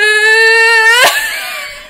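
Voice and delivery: loud, high, crying laugh. Real, not acted. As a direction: break into a wailing laugh. Laughing at the insult.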